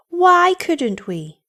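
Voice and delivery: put-on high, drawn-out child's question; childish protest, slowly stretched; pleading children. A narrator's reading. Children challenge their mother.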